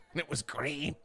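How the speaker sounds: can barely get it out for laughing. Real, not acted. Retelling granny's line, laughing it out.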